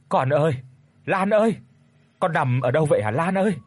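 worried father searching the hospital for his daughter, calling out frantically; anxious calling. Acted. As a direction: call for your daughter in a panic.

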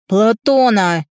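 loud angry shout of the name; furious father yells the name. Acted. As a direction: spit the name out in a rage. Father names who he'll kill.

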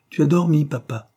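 réponse lancée haut et fort; cri d'enfant. A narrator's reading. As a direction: crier vivement à son père. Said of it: "cria Frank". (exclamation haute et sonore)

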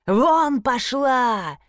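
furious owner roars at his assistant; roaring. A narrator's reading. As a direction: bellow her out of the room. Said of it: "заревел хозяин".

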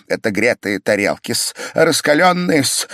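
almost rapturous. A narrator's reading. Pavel laying hot plates on the patient, almost rapturous. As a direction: savour it, nearly in raptures. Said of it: "говорил он чуть не в восторге".

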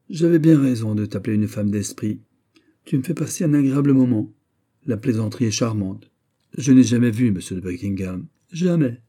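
playful, sly needling; teasing young woman. Acted. Marguerite teasing the marquise. (une amie moqueuse, voix plus aiguë)

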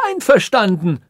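high-pitched startled exclamation; alarmed, high outburst; crying out. A narrator's reading. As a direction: cry out in dismay. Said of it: "schrie der Weise".

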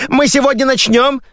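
host pleading with the crew; impatient whine. Acted. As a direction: whine at the delay.

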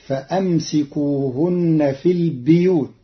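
البيوت said as al-biyut; البيوت read biyut, not buyut; kasra on the ba. Shown as a demonstration. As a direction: put an i after the ب in البيوت. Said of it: "بكسر الباء".

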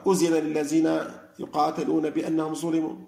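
recited with z for dh in أذن and للذين, and in ظلموا; dialect recitation. Retold or imitated. Teacher quoting a leader's recitation, z replacing dh sounds. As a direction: turn أذن للذين into uzina lillazina, ظلموا into zulimu. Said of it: "ينطقها زايا".

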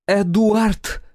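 sharp loud bark of a name. A narrator's reading. Woman barks at Eduard across the pharmacy, loud. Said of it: "рявкнула".

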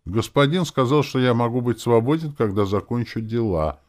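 high, loud, droning corpse voice; nasal zombie. A narrator's reading. Zombie explains his master's orders, nasal. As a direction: whine it through the nose. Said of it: "прогундосил зомбак".

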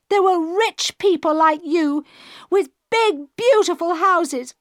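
rising fury until she is almost in tears; building to shouting. A narrator's reading. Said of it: "She was shouting now, and nearly crying".

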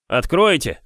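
high call through a door; a loud plea to be let in; stranger's voice. A narrator's reading. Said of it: "сказал неизвестный голос". (голос незнакомца)

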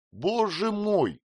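amazed that his friend missed the news; exclaiming. A narrator's reading. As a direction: throw up your hands in surprise. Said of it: "воскликнул он по обыкновению".

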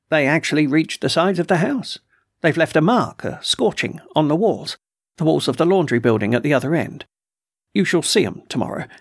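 a hint of a put-upon colonel, complaining; gruff colonel voice. Colonel complains to the doctor about trespassers, mildly indignant. Colonel describes the scorch marks.

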